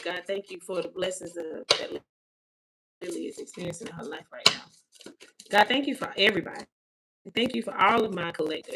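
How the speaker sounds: heartfelt spoken prayer; praying aloud in gratitude. Real, not acted. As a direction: give thanks to God aloud, steadily. Prays aloud to spirit and God.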